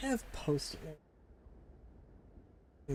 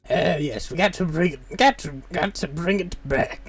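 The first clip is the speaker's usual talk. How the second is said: silly witch voice; 3 semitones higher than usual. Acted. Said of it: "silly witch voice".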